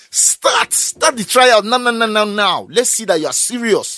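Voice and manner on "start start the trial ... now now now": louder, slow, insistent demand; impatient demand. Real, not acted. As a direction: hammer the word now. Demanding action from government.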